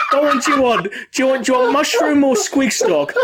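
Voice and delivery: high-pitched little grot voice; high grot squeak. Acted. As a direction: pipe it up high, like an eager goblin offering a drink. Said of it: "the grot goes".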